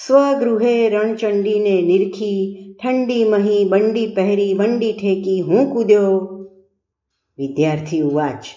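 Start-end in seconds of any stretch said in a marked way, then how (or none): 0.1-6.3 measured, declaimed comic verse; poem recitation. A narrator's reading. Tutor reciting his poem to his pupil, declaimed verse. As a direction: recite it evenly as verse, drawing out the opening. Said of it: "જો સાંભળ".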